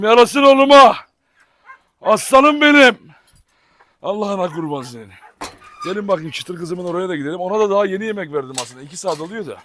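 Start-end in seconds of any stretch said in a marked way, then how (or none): 0.0-5.1 shower the dog with loud love; gushing praise. Real, not acted. Doting on dog while feeding. (köpeğe yüksek sesle sevgi gösterisi)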